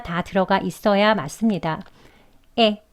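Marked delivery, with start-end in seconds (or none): 2.6-2.8 에 said with jaw open to 애, sliding toward 이; vowel demo. Shown as a demonstration. Teacher repeats 에 for class, crisp vowel demo. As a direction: model 에 crisply for learners. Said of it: "이렇게요".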